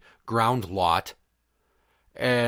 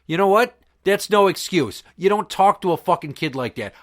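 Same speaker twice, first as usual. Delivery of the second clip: higher, forceful retold comeback; indignant retort; 5 semitones higher, 4 dB louder than usual. Dad telling an old man that's no excuse, indignant. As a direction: push back hard, pitched up.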